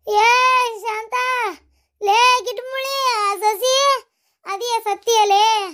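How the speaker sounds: slow drawn-out call across the house; slow, high calling out to the girl. Acted. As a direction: stretch the words calling her.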